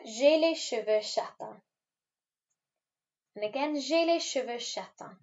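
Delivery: J'ai les cheveux châtains said slowly, châtains as sha-TAN nasal; slow French model. Shown as a demonstration. Teacher introducing a new hair word for pupils, slow and careful. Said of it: "so let's try that".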